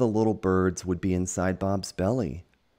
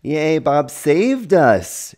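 high, loud, slow drawn-out cheer; 11 semitones higher, 11 dB louder, much slower than usual. Acted. Little birds thank Bob, slow high cheer. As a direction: cheer like a tiny bird. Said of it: "cheered the birds".

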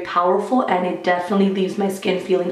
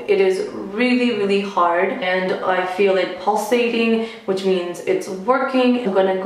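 stiff face, barely moving lips; talking with rigid cheeks; through a stiff dried face mask. Real, not acted. Seen 0: Cracked dried mask covers whole face, mouth barely moves while talking.

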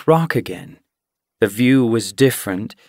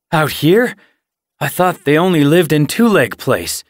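frightened; 5 semitones higher, 5 dB louder than usual. A narrator's reading. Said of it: "His eyes widened with fear".

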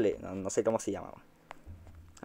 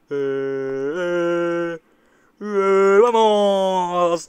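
triumphant shout; 3 semitones higher, 5 dB louder, much slower than usual. Real, not acted. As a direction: celebrate the win out loud. Celebrating the win.

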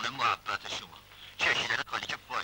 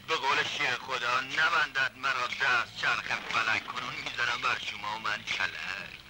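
declaimed verse; 2 semitones higher than usual. Acted. Captive quoting a heroic verse to himself, declaiming. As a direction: recite it like a heroic boast.

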